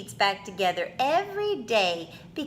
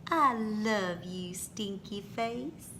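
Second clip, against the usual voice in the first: whispered; 5 semitones lower, 6 dB quieter than usual. Acted. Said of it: "whisper in your ear".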